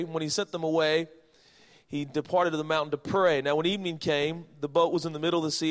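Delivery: scripture reading. Acted. Reads scripture aloud to congregation.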